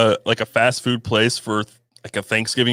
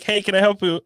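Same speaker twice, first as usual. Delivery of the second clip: mock worker; 7 semitones higher than usual. Voicing drive-thru worker.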